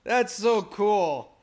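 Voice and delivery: high, loud, drawn-out delight; thrilled. Real, not acted. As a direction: cheer it loudly, stretching the words. Listener thrilled by the impression.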